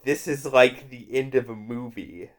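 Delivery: slow, halting attempt at an American accent; failed American accent. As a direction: do Kelly MacDonald straining at an American accent. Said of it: "Kelly MacDonald tried and mostly failed to do an American accent".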